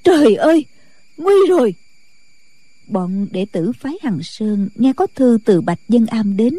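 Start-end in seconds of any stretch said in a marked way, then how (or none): 0.0-1.8 alarmed cry. Acted. Nun reading bad news, high alarmed cry. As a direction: cry out in sudden dread. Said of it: "rồi kinh hãi la lên".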